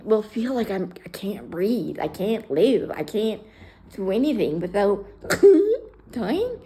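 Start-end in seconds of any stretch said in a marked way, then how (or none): 5.3-6.6 laughing. Real, not acted. Laughing about dying.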